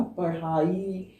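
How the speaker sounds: पढ़ाई very slow, with the ढ़ flicked out by the tongue; slow teaching demo of पढ़ाई; flapped ढ़ demo. Shown as a demonstration. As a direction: toss the ढ़ of पढ़ाई out slowly. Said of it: "आप बोल के देखो".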